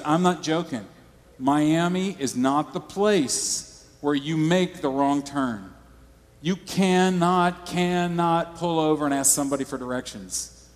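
dead serious warning. Retold or imitated. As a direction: hammer home the warning like a worried friend. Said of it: "He was dead serious".

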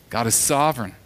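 usual speaking voice

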